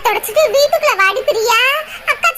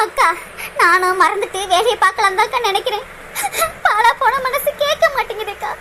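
lower, soft crying voice; weeping; 3 semitones lower, 3 dB quieter than usual. Acted. Priya tells her sister she cannot forget, crying softly. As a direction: confess the heart won't let go.

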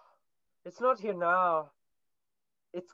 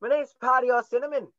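put-on Irish accent; 2 semitones higher than usual. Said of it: "That sounds Irish".

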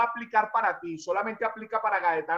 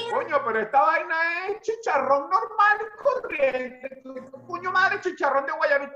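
higher, slow indignant protest; complaining customers; 6 semitones higher, slower than usual. Retold or imitated. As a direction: complain to the vendor, offended. (queja indignada y aguda)

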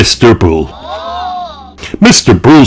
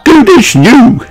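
very high rabbit squeak; pleased cartoon rabbit. A narrator's reading. Miss Rabbit presents the glued teapot, high and pleased. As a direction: announce it in a high character voice.

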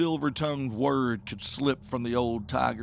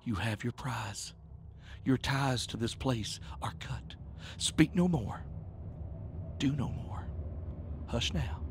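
hushed, deliberate whisper with long pauses; 4 dB quieter than usual. A narrator's reading. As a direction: whisper a final command into an ear. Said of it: "whispered in his ear".

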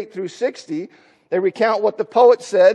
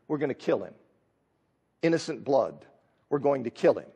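menacing enemies; 7 semitones lower, 7 dB quieter, faster than usual. Retold or imitated. Voicing the enemies' plot.

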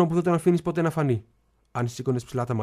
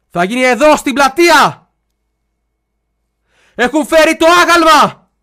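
1 shouting; 12 semitones higher, 14 dB louder, slower than usual. Retold or imitated. Shouting at ignoring father.

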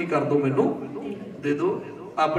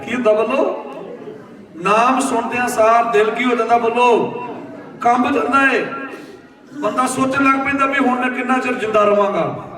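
raised, insistent preacher's voice; forceful preaching; 5 semitones higher than usual. Real, not acted. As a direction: preach it out, calling for the answer. (ਜੋਸ਼ ਭਰਿਆ ਪ੍ਰਚਾਰ)

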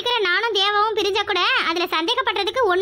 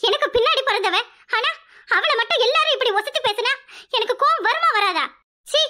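jealous rant; 4 semitones higher than usual. Acted. Jealous sister ranting about Kani.

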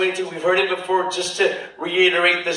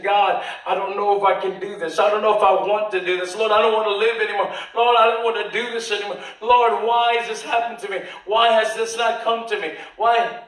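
rushed, higher pleading, mildly acted; desperate prayer; 3 semitones higher, faster than usual. A believer praying alone at their lowest, rushed mock despair. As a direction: pour it out fast like someone at the end of their rope.

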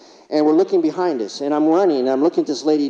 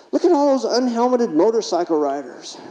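put-on boy's voice; 8 semitones higher than usual. Boy voiced in ambulance story.

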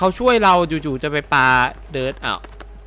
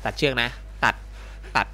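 softer, lower pleading; soft plea; 5 semitones lower, 9 dB quieter than usual. Acted. Captive quietly asks for the rope to be cut, soft plea. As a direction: ask it quietly, almost giving up.

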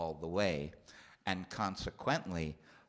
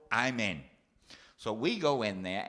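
ordinary delivery

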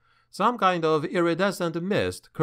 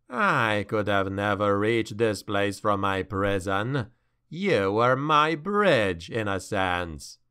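low, gloating demon; menacing demon voice; 4 semitones lower, slower than usual. Acted. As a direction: purr it like a patient monster. Demon speaks to Malus.

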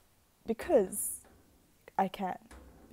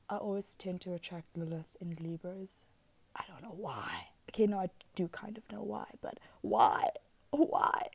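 whisper. Real, not acted. Musing aloud to herself.

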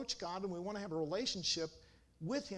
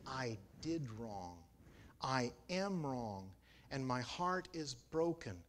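contrite confession; 5 semitones lower, slower than usual. Shown as a demonstration. Voicing a repentant confession.

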